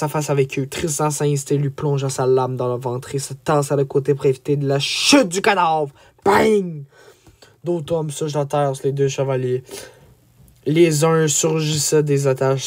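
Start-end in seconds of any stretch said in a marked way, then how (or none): 6.2-6.8 high, punched impact noise. A narrator's reading. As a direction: punch out a sudden bang. Narrator voices a body falling.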